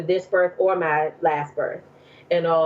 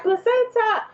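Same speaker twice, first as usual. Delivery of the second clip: retold called-out answer; 14 semitones higher than usual. Daughter calling out answer, retold.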